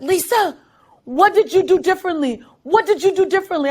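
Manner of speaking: high, fast astonished question; excited coach. Retold or imitated. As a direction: coach amazed at the swim. Excited coach voiced in story.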